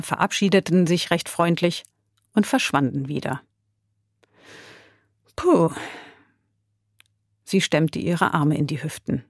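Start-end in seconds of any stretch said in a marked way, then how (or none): 5.4-5.7 short, high exhaled "puh"; relieved "phew". A narrator's reading. Lotte once the soldiers have gone, relieved phew. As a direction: let out a light, acted phew.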